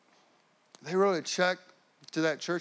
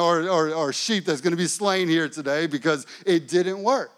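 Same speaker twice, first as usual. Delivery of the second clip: louder, slowed-down mock panic; panicked inner rant; 4 semitones higher, 6 dB louder than usual. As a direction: spiral into imagined doom, hammed up. Panicked inner monologue retold.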